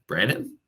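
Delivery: "Brandon?" said with a clear rising question tune; upward intonation. Shown as a demonstration. Agent calling Brandon, rising questioning "Brandon?". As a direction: ask "Brandon?" with the pitch lifting at the end. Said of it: "with that upward intonation".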